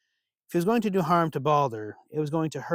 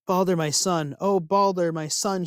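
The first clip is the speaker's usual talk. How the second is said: a mother's grieving cry, louder and higher; mother's wail; 5 semitones higher, 4 dB louder than usual. Acted. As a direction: cry out his name in grief. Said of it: "she wailed".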